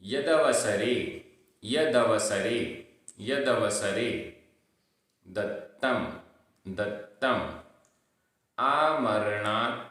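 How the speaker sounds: slow word by word, each repeated after a pause; careful recitation with long gaps between words; pronunciation drill. Shown as a demonstration. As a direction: model each Sanskrit word slowly and distinctly. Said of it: "उच्चारण".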